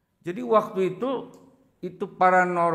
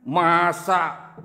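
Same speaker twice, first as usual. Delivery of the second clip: disbelieving; 3 semitones higher, 4 dB louder than usual. Retold or imitated. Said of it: "nggak percaya".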